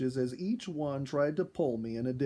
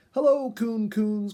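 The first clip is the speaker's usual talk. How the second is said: high, slow, loud call across the water; 11 semitones higher, 10 dB louder than usual. A narrator's reading. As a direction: call sweetly to the raccoons on the dock. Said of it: "called Jenny".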